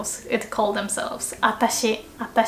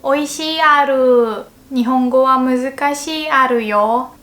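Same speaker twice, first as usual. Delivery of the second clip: anime Chinese character; 2 semitones higher, 4 dB louder than usual. Shown as a demonstration. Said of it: "every Chinese character would speak like that".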